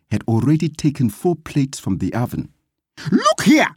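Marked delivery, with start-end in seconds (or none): 3.1-3.7 high, sharp narrated shriek. A narrator's reading. Gladys calls the frightened men to order, shrieking. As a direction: shriek it to command their attention. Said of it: "she shrieked at them".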